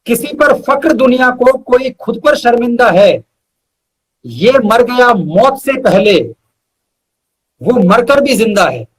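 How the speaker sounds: measured shayari recital with weighty pauses; poetic recitation. Acted. Reciting his couplet to the host, measured and poetic. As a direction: lean into each line like a mushaira couplet.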